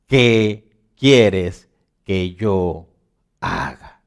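very slow, word by word; humbled submission. Retold or imitated. Preacher voicing Saul surrendering to Jesus, slow humbled submission. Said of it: "Él, temblando y temeroso".

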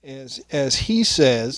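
slow, distant off-mic words; speaking away from the microphone; turned away from mic. Real, not acted. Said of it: "You're off mic a little bit".

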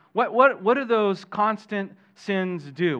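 loud, high insistent what, what; emphatic repeated question. Real, not acted. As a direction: push the class with a ringing "what, what". Preacher pressing the class.

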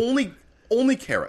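very high squeaky insistence. Pretend.

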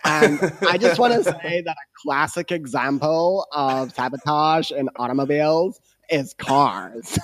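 put-on valley girl American accent; Chris's American voice. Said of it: "I'm gonna try and do Chris's voice".

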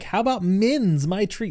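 lightly voiced mom offering a treat; imitating mom. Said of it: "this is where she's like".

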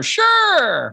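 high, happy agreement; eager yes. Retold or imitated. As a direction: chirp it like you can't say no. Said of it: "everybody's like".

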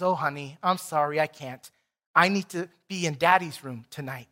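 soft, low, tender mother; lightly voiced consoling mother; gentle motherly apology. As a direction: let the child down gently. Mother gently refusing her frightened son.

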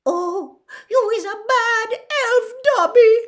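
high, loud tearful elf wail; moaning. Acted. Winky weeping at Dobby's disloyalty, moaning. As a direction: moan it, rising into a wail. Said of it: "moaned Winky".

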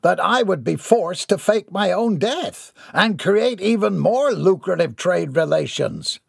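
a self-important tycoon addressing the crowd; pompous villain. A narrator's reading. Gerard boasting to his adoring fans, pompous.

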